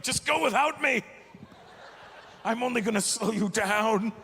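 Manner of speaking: high, loud pleading, then slowing; mock dramatic plea. To his friend, a hammed-up plea to go on without him. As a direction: beg them to leave you behind.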